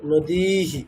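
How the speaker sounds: "নদীহি" with long "দী" and brief "হি"; short final hi. Shown as a demonstration. Teacher demonstrating visarga after long i, "নদীহি" ending in short হি. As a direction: hold "দী", then a quick "হি". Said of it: "actually হ্রস্ব হবে".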